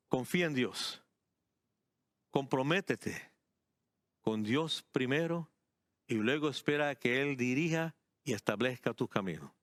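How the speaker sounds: unhurried, measured preaching; deliberately paced. Real, not acted. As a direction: spell out the instruction phrase by phrase. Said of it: "esto lo voy a decir pausadamente".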